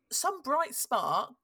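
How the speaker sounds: slow, drawn-out "bright spark" with mock praise; ironic bright spark. Real, not acted. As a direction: stretch out "bright spark" sarcastically. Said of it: "well, I say some bright spark".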